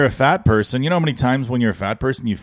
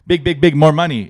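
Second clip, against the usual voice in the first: mock Chinese accent; 4 semitones higher than usual. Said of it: "do it in a Chinese accent".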